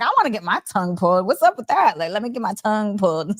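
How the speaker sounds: clowning. Pretend. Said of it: "but I'm clowning".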